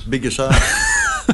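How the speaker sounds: shout. Acted. Cheeky insult yelled on air.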